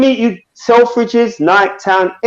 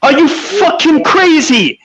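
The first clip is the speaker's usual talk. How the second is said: real anger; 9 semitones higher, slower than usual. Real, not acted. Live chat panel shouting match.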